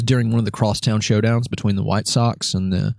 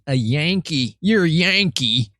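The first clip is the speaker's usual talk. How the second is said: higher, drawn-out incredulous retort; indignant; 8 semitones higher, slower than usual. Retold or imitated. Guest retorting to buddy's wife, indignant. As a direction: throw the word back in disbelief.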